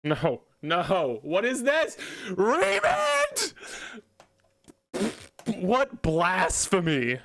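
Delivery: building from dismay to a very high shriek; outraged disbelief. Real, not acted. Player seeing opponent's card, disbelief rising to a shriek. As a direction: climb from stunned no to shrieking the name.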